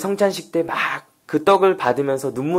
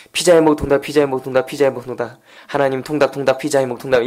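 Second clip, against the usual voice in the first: mock tongues prayer; faster than usual. Student prays for fast food, mock speaking in tongues. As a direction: imitate praying in tongues, repetitive and unbroken. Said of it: "패스트푸드 방언이라고 아실지 모르겠지만".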